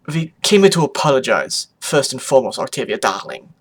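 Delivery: put-on rough foreign accent, dropping at the end; Photo Finish. Mother apologizing to Octavia, rough put-on accent. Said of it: "Her accent was rough".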